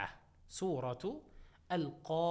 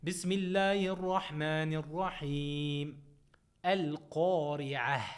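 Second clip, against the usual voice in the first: chanted tajweed recitation, held and measured; Quran recitation; 3 dB louder than usual. Shown as a demonstration. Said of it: "I want you just to repeat after me".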